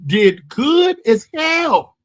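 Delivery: slow, stretched shout on good as hell; drawn-out shout. Real, not acted. Comic insisting the set went great, slow shout. Comedian's self-doubt rant.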